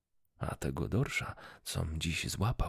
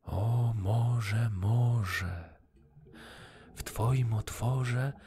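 louder, higher call out to the sea; 5 semitones higher, 4 dB louder, much slower than usual. A narrator's reading. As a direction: summon the sea, drawn out and loud. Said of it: "i zawołał".

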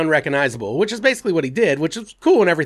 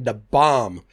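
mocking quote; 6 semitones lower than usual. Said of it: "brave of you to just be throwing out".

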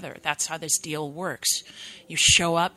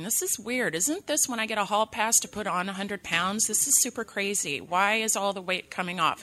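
puzzled; 4 semitones higher, 3 dB quieter than usual. Retold or imitated. Voices her puzzled thoughts while pregnant.

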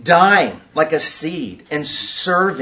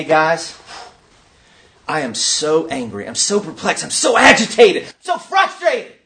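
acted angry agitation; 2 semitones lower than usual. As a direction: start contained, then climb into exasperated mock frustration. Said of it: "he's coming to despair with anger".

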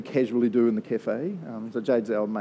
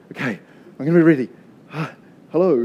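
mock bracing; 7 dB louder, faster than usual. Bracing for angry customer.

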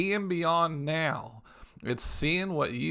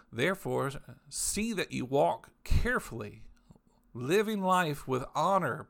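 scripture reading. Acted. Reads Amplified scripture aloud.

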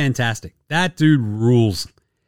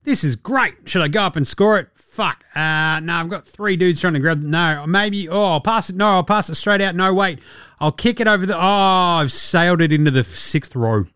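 panicking player; 3 semitones higher than usual. Retold or imitated. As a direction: talk yourself in and out of every option. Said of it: "He's like".

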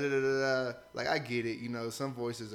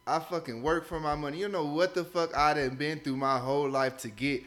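raised, louder defense of his money; heated rant; 5 dB louder than usual. Real, not acted. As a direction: fire back at critics, loud. Angry rant at critics.

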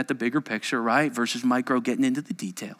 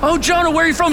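quick, raised mock small talk; mock casual question; 8 dB louder, much faster than usual. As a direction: toss it off as polite chat, still loud. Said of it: "It's not like".

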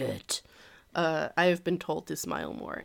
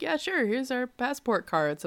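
higher-pitched mock Canadian accent; customers' Canadian accent; 4 semitones higher than usual. Customers handing passport cards to a cashier, Canadian accent. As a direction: imitate cheerful-sounding Canadian customers, accent and all. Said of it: "this accent".

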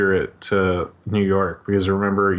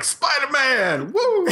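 high, drawn-out yell while laughing; ad guy impression; much slower than usual. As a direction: whoop like the ad guy, cracking up. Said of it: "He's like".

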